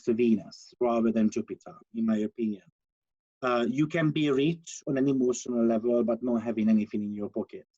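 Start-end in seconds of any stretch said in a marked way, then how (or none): 3.4-7.6 muffled voice, hand over mouth; speaking through a muffled mic. Real, not acted. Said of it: "It's very muffled".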